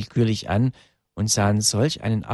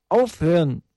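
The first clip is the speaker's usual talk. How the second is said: raised, urgent cry to stop; horrified outcry; 7 semitones higher, 4 dB louder than usual. A narrator's reading. Two children begging the attackers to stop, horrified outcry. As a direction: cry out to halt it. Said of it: "wollten die beiden aufschreien".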